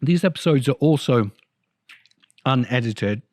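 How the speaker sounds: talking around an ice cube; words muffled by ice in the mouth. Real, not acted. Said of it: "I now have an ice cube in my mouth".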